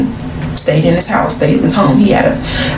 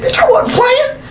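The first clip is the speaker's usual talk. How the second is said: put-on high French accent. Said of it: "I still had to ask him".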